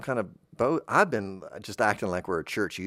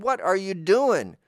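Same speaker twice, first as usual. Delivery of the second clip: alarmed shout; 9 semitones higher, 5 dB louder than usual. Acted. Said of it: "we said".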